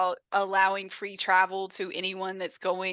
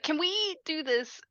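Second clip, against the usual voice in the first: higher, louder desperate begging; panicked pleading; 7 semitones higher, 5 dB louder than usual. Retold or imitated. Jimmy begging the train conductor, high and loud. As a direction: beg frantically to be let off the hook.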